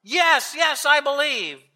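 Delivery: high-pitched, urgent assent; desperate eagerness. A narrator's reading. Tourist assures the voice he believes, desperately eager. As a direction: agree instantly to get rescued.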